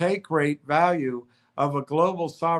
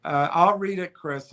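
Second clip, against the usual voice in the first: usual speaking voice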